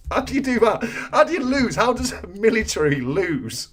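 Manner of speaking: high-pitched amused disbelief; incredulous. Real, not acted. Host marvels at the lost Emu War, incredulous. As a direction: ask it as if utterly baffled.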